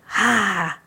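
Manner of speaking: airy, awakening "ah"; an open sigh of remembering; breath of realization. Acted. Hero suddenly remembers who he is.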